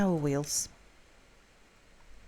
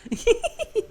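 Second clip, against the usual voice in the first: high laugh; 3 dB louder than usual. Real, not acted. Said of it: "trying to get me to pronounce".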